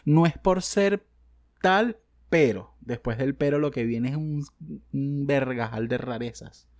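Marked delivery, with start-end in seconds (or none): 0.1-2.8 mock whiny voice, drawn out, slow; mocking quote. To his viewers, mocking people who say this, slow mock drawl. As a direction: drag out the cliché slowly. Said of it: "esa gente que dice".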